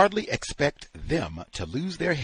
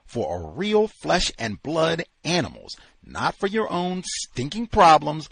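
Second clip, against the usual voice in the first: angry; 4 semitones higher, 4 dB louder than usual. Acted. Angry tirade.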